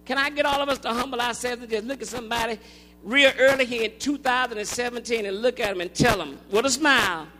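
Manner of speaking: ordinary talk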